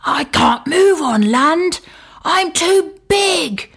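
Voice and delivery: a stuck whale groaning he can't move; moaning whale. Acted. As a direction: moan helplessly like a beached whale. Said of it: "moaned the whale".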